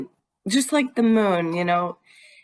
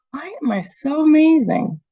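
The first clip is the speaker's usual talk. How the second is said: whispered, higher self-praise; playful whisper; 6 semitones higher, 4 dB louder than usual. Shown as a demonstration. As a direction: whisper it like a happy secret. Modelling a positive self-question.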